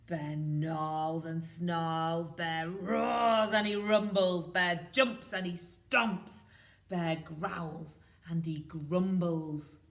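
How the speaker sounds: loud, slow grumbling read; growly bear telling. A narrator's reading. Teacher reading angry bear to nursery, loud. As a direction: stomp through it like an angry bear.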